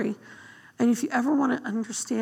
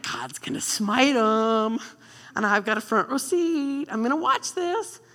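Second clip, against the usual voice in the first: smug Jonah. Retold or imitated. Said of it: "He's like".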